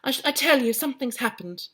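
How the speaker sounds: put-on high-pitched excited girl; squeaky, urgent little girl; lightly voiced excited child; Janet's high voice. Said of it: "that's her voice now".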